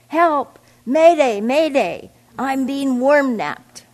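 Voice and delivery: high, loud mayday cries; bracing for a crash. Acted. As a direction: yell distress calls like a crashing pilot. Worm cries mayday in panic.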